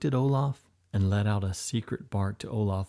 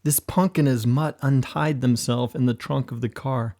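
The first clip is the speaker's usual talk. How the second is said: higher, stammering excuse to the boss; stuttering sheepishly; 4 semitones higher, 4 dB louder than usual. A narrator's reading. Henchmen excusing themselves to the angry boss, sheepish. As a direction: trip over the words, guilty and nervous. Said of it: "stuttered sheepishly".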